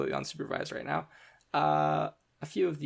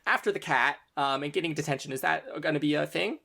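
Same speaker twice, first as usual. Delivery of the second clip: nervous asking; 3 semitones higher, 4 dB louder, faster than usual. Acted. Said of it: "she stutters for a little bit".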